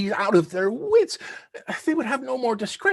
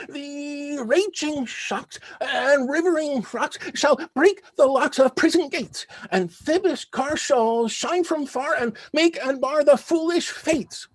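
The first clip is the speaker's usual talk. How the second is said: declaiming verse. Acted. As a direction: rant it like a stage tyrant.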